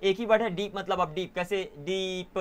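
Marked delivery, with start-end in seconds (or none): 1.8-2.4 डीप drawn out slowly with the final p set apart; oddly stretched word. Shown as a demonstration. Teacher showing it won't divide, डीप stretched oddly. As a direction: try to pull डीप into pieces, awkwardly. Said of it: "कुछ ऐसे अजीब सा है".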